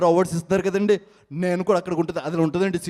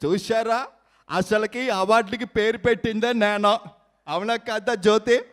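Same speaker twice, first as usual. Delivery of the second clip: boastful leader. Acted. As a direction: brag about naming the awards. Mimicry act, boastful leader.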